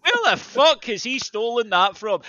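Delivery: high, loud disbelief again; repeated outburst. Real, not acted. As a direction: throw the question out, amazed.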